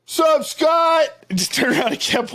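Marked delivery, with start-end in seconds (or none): 0.1-1.1 high-pitched imitation of a cousin; cousin's passing greeting. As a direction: toss off a high retold hello. Acts out Joe's passing greeting.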